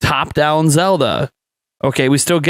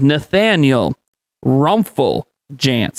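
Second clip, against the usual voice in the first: slow, deliberate, each part laid out carefully. Podcast host introducing himself by his hyphenated name, saying a name slowly. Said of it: "I said it slow".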